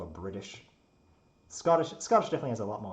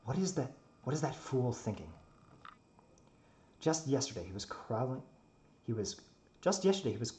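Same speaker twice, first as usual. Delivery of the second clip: in-character story narration. A narrator's reading.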